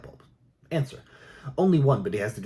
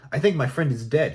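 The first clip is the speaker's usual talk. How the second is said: a moderate yell, raised but not full force; 5 semitones higher, 5 dB louder than usual. A narrator's reading. Hunter yelling into the phone to the operator, a moderate yell. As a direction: call out in alarm. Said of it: "he yells".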